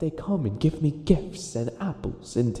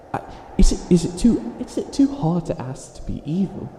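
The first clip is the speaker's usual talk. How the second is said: frustrated outburst; 5 semitones higher, 5 dB louder than usual. Acted. Villain frustrated at own goodness.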